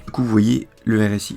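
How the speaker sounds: real strained, uneven voice; odd, cracked voice. Real, not acted. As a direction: push on loudly through a cracking voice. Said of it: "excusez-moi, ma voix elle est bizarre".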